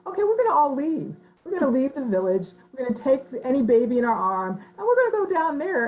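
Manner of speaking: rally the village women to walk out; defiant women. Retold or imitated. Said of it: "And he's".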